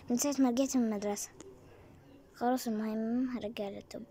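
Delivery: hushed hurried whisper. Acted. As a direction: whisper so no one hears. Whispering so mom won't hear. (همس سريع)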